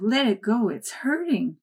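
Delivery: put-on a girl wailing at her family to spare the fish; wailing plea. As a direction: beg like a heartbroken child. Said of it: "I wailed".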